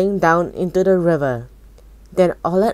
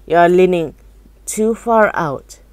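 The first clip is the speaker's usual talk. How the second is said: shouting; 3 dB louder than usual. Acted. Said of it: "shouted Mister Gloop".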